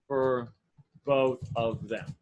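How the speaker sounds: low, soft and drawn out; slow, quiet self-dictation. Real, not acted. Coach repeating his offer to himself as he notes it, slow and low. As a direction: murmur it slowly, word by word. Saying it while writing it out.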